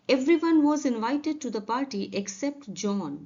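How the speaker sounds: very slow, evenly spaced words; slow careful model sentence; slow dictation read. Shown as a demonstration. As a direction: read it slowly for learners. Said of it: "teacher reads example slowly".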